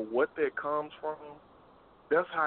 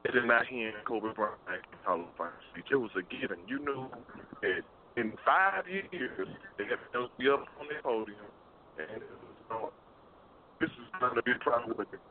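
choppy breaking-up phone line; buzzy glitchy call audio. Real, not acted. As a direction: voice cutting in and out on a call. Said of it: "you breaking up".

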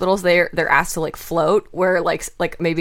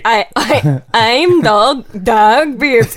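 louder, badly faked Irish accent; botched Irish accent; 2 semitones higher, 5 dB louder, much slower than usual. Shown as a demonstration. Co-host retrying his intro on request, failed Irish accent. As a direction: fumble your way into an Irish accent. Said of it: "the minute I try to do an accent".

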